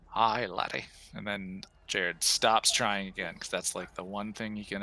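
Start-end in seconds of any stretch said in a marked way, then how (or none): 0.1-0.9 softly attempted Scottish accent; low-key mock Scottish. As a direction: try a half-hearted Scottish greeting. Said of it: "Scottish accent".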